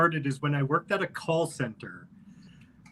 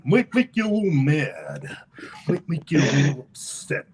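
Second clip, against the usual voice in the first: Macho Man impression.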